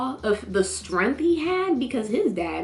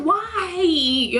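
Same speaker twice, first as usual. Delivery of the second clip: high anguished why; 9 semitones higher, 3 dB louder than usual. Retold or imitated. Fan mourning a character, wailing high. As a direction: wail it high and loud.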